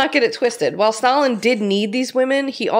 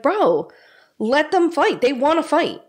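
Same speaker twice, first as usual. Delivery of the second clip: high pleading; 7 semitones higher than usual. Retold or imitated. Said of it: "she's like".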